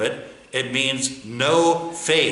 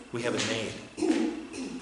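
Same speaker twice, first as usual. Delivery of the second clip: slow repeat; 4 semitones lower, 9 dB quieter, much slower than usual. Shown as a demonstration.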